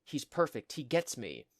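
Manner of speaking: put-on mild lovestruck teen excitement; gushing. Goth girl about the boy she just met, gushing.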